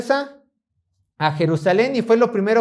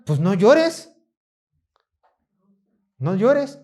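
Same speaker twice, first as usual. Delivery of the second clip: stern governor; much slower than usual. Acted. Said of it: "llega mi gobernador todo malo y me dice".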